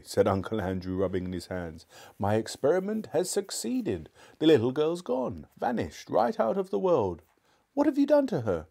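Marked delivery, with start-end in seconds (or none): 2.2-7.2 high-pitched, triumphant announcement; exultant. A narrator's reading. Uncle Andrew boasts to Diggory of his experiment, exultant. 7.8-8.6 very high, louder outcry; alarmed demand. A narrator's reading. Diggory confronts his uncle about Polly, alarmed.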